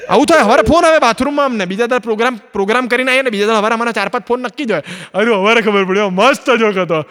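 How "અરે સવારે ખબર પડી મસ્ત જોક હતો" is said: a fan finally getting the joke, stretched slowly; slow, delighted fan. Retold or imitated. Fan phoning the comedian the next morning, slow and delighted. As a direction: drag out the late realisation slowly.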